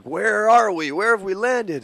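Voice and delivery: high, loud swooping cry of confusion; bewildered Star Wars characters. Retold or imitated. Co-host retelling Luke and the droids landing, mock bewilderment. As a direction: call it out, lost and alarmed. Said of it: "and they're like".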